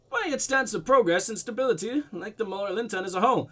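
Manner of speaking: put-on light blend of Russian and German accents. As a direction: voice the man with a slightly muddled Russian-German accent. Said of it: "weird blend of Russian and German".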